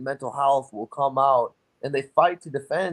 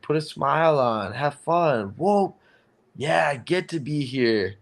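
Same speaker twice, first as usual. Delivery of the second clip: imitated cheerfulness. Coach modelling enjoyment of life.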